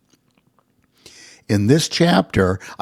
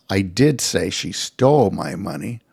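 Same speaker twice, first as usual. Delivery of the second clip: emphatic "did", as a correction; stress on DID; 2 semitones lower than usual. Shown as a demonstration. Lecturer explaining the implied meaning, stress on "did". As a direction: stress "did", with weight on "stole". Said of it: "Depending on stress emphasis".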